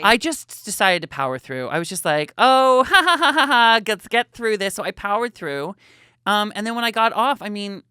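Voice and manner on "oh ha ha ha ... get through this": loud, high, nervous fake laugh; forced laughter. On live TV beside Barbara, loud forced laughing. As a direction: laugh it off while dying inside.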